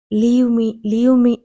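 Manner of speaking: loud, rising cry to be let go; shouting. A narrator's reading. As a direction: yell at him to let go. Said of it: "అని అరుస్తోంది".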